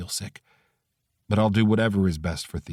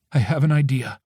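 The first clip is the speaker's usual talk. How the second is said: lightly voiced friend; 5 semitones higher than usual. A narrator's reading. Hannah voice.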